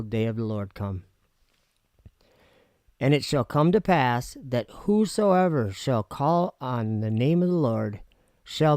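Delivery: solemn Bible reading, rising start; scripture reading. Acted. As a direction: read the verses like a preacher. Reads scripture aloud.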